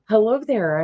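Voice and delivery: retold soothing greeting, lifted in pitch; calm greeting. Retelling her greeting to the creature, calm and coaxing. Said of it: "I just said real calmly".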